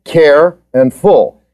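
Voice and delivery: CARE and FULL as two separate, slow beats; split into syllables. Shown as a demonstration. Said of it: "What are the two syllables?".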